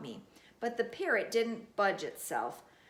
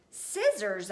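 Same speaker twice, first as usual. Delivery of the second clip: alarmed; 6 dB louder than usual. Acted. Alarm at scissors.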